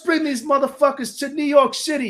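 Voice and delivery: high, loud rock-frontman greeting to the crowd; stage hype shout. Retold or imitated. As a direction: fire up thousands of fans from the stage. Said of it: "I'm like".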